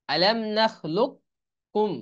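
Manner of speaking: আলাম নাখলুককুম drawn out, qaf merged into kaf; slow Quranic chant; very slow recitation. Shown as a demonstration. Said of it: "এখানে লাক্কুম লেখছে".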